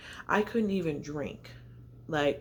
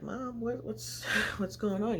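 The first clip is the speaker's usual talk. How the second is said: higher, softer, lightly acted baby voice; lightly voiced unborn baby; 6 semitones higher, 3 dB quieter than usual. Unborn daughter asking mom what's wrong, lightly voiced baby. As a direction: lightly imitate a child questioning mom. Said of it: "She was like".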